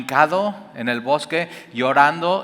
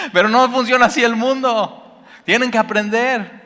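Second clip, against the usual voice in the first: fired up; 9 semitones higher, 3 dB louder than usual. Real, not acted. Preacher preaching at raised pitch.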